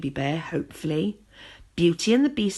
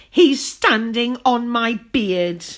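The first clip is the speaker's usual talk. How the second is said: grumbling; 4 semitones higher, 7 dB louder, slower than usual. A narrator's reading. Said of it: "grumbled Rumpelstiltskin".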